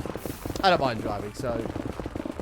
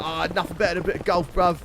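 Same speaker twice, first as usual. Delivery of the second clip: put-on London bruv accent; 3 semitones higher, faster than usual. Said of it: "He's like".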